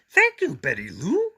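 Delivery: high, happy monster voice; Grover delighted. A narrator's reading. Grover delighted with Betty Lou's sandwich, high and happy. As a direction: exclaim it gladly.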